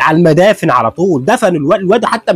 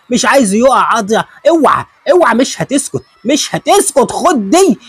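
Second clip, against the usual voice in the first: shout; 6 semitones higher than usual. Real, not acted. Shouting at the brutal hit.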